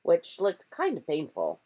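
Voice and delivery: ordinary delivery, nothing marked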